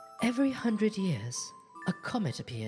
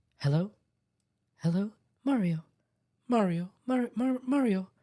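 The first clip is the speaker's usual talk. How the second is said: put-on woman's voice, louder, slower; 2 semitones higher, 4 dB louder than usual. Voicing a lady character calling out a name: put-on woman's voice. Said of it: "I don't sound like a real woman".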